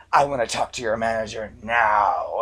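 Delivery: mock-shouted customer demand; irate caller. Irate caller demanding a manager from the bank rep, indignant. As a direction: act out an indignant caller, leaning on the words.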